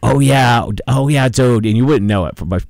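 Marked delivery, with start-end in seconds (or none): 0.0-1.6 put-on South Shore accent. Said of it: "he's got the whole accent".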